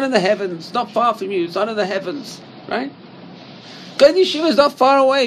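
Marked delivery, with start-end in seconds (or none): 4.0-5.2 higher, louder and fast, full of energy; excited outburst. Real, not acted. Teacher urging his students that yeshiva is close, excited and loud. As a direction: fling it out like it's obvious.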